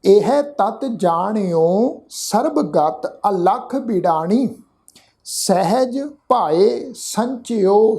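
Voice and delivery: slow, careful verse reading with pauses; slow recitation. Shown as a demonstration. Teacher showing the sangat how to recite. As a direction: lay out every word for listeners to copy. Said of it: "ਇੱਕ ਵਾਰ ਫਿਰ ਤੋਂ ਪਾਠ ਉਚਾਰਨ ਕਰ ਰਹੇ ਹਾਂ".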